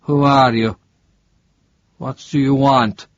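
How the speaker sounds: a frail priest, suddenly alert; startled priest asking a stranger; confused old priest. Acted. Priest questions Robert.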